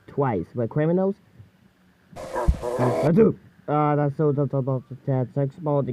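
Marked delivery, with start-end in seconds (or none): 2.2-3.4 sneeze. Acted. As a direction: catch the breath and sneeze out. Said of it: "I can't stop sneezing".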